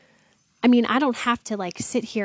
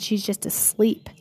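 whisper; 3 dB quieter than usual. Retold or imitated. Jesus quoted gently.

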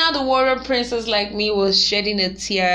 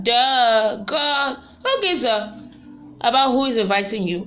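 exasperated; 3 semitones higher, 4 dB louder than usual. Real, not acted. Ranting at poster.

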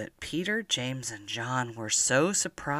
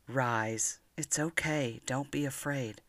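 reassuring; 7 dB quieter than usual. Acted. Jesus comforts frightened friends.

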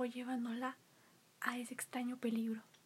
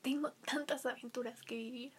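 put-on young princess voice. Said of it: "decía la princesa".

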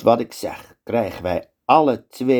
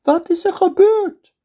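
much higher, louder command; sultan's order; 4 dB louder than usual. Acted. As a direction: order the execution. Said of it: "zegt de sultan".

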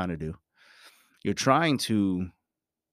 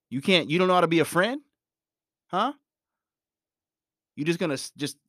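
quick, raised mock complaint; acted fast rant; 6 semitones higher, faster than usual. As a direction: rattle it off, playing offended. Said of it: "I'm just acting".

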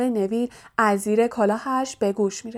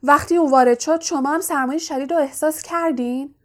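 louder, shaken exclamation; louder than usual; 4 semitones higher, 4 dB louder than usual. Acted. Neville speaking up to the others, louder than usual. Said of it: "با صدایی بلندتر از همیشه گفت".

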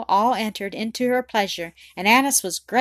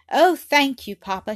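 joyful cry, higher and louder at first; overjoyed; 5 semitones higher, 6 dB louder than usual. A narrator's reading. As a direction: burst out with delighted thanks. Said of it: "cried in a transport of joy".

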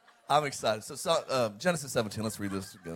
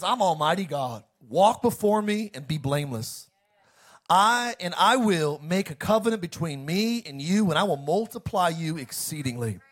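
lightly voiced divine proclamation, measured phrasing; a hint of the Almighty's authority; God speaking. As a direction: read it as God making a promise. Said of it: "talk like this to all of us".

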